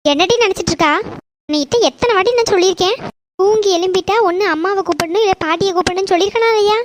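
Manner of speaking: exasperated mother's telling-off; angry scolding. Acted. Mother reminds her child to call someone on waking, angry scolding. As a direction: lay down the rule crossly. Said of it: "நீ கோவமா பேசுற".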